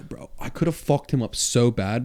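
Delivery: mock-tough whispered brag. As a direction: whisper it like a secret threat. Joking brag about the wasp.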